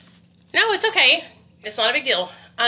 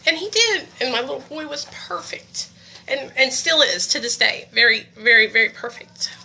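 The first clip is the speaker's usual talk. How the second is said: tearful, choked with emotion; teary-eyed; 4 semitones higher than usual. Real, not acted. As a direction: voice welling up with tears. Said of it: "I got a little, um, teary-eyed".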